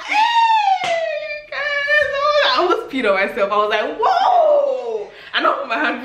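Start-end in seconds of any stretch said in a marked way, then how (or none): 0.1-2.1 high, drawn-out squeal; retold pain cry. Storyteller recalling a cane stroke for viewers, retold squeal of pain. 4.0-5.1 long, very high whoop; retold pain yell. Storyteller reliving the flogging, high exaggerated yell.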